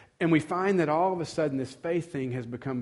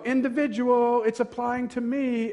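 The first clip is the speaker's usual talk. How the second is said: higher, louder mocking whine; higher mock of the selfish reader; mock individualist; 8 semitones higher, 3 dB louder than usual. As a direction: caricature of the me-first listener.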